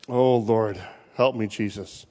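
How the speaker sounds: soft, low plea to God; hushed prayer. Real, not acted. Preacher ending his point with a soft plea to Jesus. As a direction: breathe the prayer quietly. Quiet prayer after climax.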